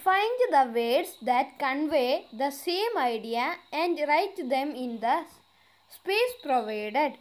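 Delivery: slow, deliberate read-aloud of an English exercise; careful dictation pace; slow textbook reading. Acted. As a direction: read each word out clearly for the class. Reads textbook instruction slowly.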